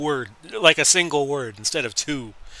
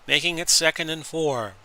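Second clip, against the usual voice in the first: louder, quicker sports call as the play unfolds; 4 dB louder than usual. Acted. Announcer to viewers, live play-by-play.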